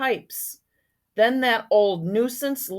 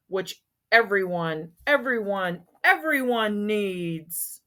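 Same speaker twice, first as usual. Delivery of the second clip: yelling Onceler. Acted. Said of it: "I yelled at the Lorax".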